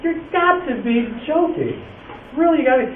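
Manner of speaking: can't believe what you're hearing; incredulous retort. Retold or imitated. Teacher incredulous at student.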